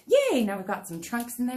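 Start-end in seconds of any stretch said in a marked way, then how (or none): 0.1-0.4 little cheer. Real, not acted. Cheer while painting.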